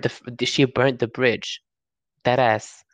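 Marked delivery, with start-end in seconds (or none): 2.2-2.8 a quick unvoiced whisper under the breath; whispered aside. Real, not acted. Friend whispers a jab about Trisha, whispered. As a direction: hiss it aside like a secret jab.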